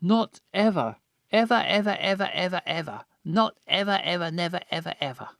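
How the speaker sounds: high sing-song, fading repeats of ever; tipsy, fading repetition; drunk slurring. Acted. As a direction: ramble it drunkenly, trailing off.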